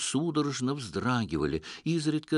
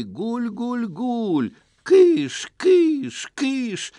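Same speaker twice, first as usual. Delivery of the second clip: high loud shoo like chasing pigeons; shouting to shoo birds; 12 semitones higher, 7 dB louder, much slower than usual. Retold or imitated. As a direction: call out to scare pigeons away. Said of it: "Так и кричал". (крик, как на голубей)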